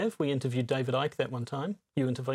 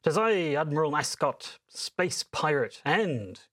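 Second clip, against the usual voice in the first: pirate admiral. Acted. Rival pirate admiral introduces himself.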